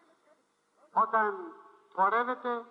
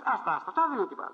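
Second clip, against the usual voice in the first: dismissive doctor; 4 semitones higher, much faster than usual. Retold or imitated. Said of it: "λέει ο γιατρός".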